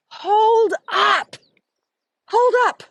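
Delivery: high, loud mock-stunned stop; startled hold up. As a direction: freeze her mid-thought, voice jumping high. Friend stopping mid-conversation, retold.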